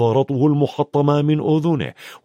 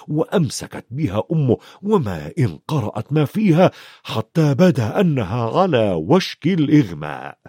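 usual speaking voice

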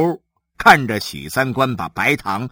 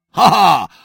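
table-slapping order; 10 semitones higher, 7 dB louder than usual. Acted. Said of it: "许三观拍着桌子说".

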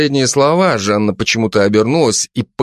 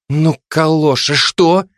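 higher, slowed mock-angry jab; 6 semitones higher, slower than usual. Жанна злится на Жека, что упустил подозреваемого, язвительно. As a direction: sneer at him for failing. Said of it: "разозлилась Жанна".

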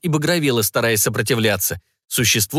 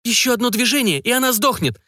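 witch's threat; 12 semitones higher than usual. Acted.

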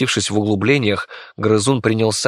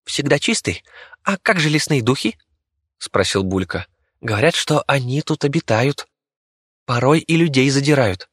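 squeaky rat voice; 5 semitones higher than usual. Acted. Rat asks about forest spirits.

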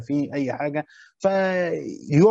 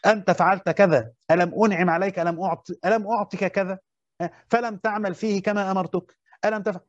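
stern rebuke; 4 semitones higher than usual. Shown as a demonstration. Teacher acting out a harsh rebuke to a servant, stern scolding. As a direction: rebuke him like a let-down master. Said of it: "يعاتب معاتبة شديدة ويوبخه".

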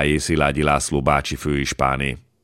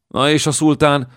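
eager, much higher question; excited question; 10 semitones higher, 4 dB louder than usual. A narrator's reading. An excited voice from the crowd asks about the sultan, eager. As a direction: blurt it out keen to know. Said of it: "kérdezte egy izgatott hang".

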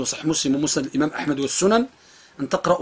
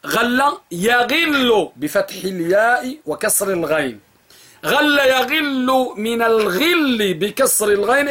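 slow, higher teacher dictation; 5 semitones higher, much slower than usual. Shown as a demonstration. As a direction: dictate slowly, stressing each form. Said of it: "أعيد". (إملاء بطيء ومرتفع)

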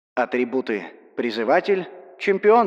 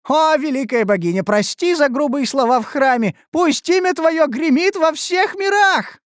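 much higher, fervent glorification; exalted praise; 11 semitones higher than usual. A narrator's reading. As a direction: hail the goddess in rapture. (восторженное восхваление)

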